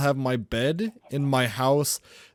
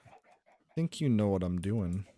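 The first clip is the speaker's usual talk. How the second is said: low menacing villain; 8 semitones lower, 6 dB quieter than usual. Acted. Villain taunting his friend.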